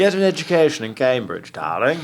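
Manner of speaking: mock-posh Cambridge darling; posh Cambridge accent. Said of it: "everyone's really posh".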